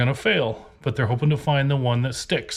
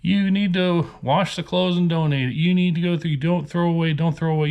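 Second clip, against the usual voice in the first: mocking viewer advice; 4 semitones higher than usual. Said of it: "they're watching at home and they say".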